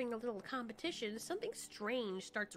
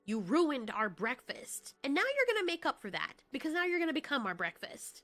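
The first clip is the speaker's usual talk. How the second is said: furious threat; 4 dB louder than usual. Acted. Threatens cornered creature.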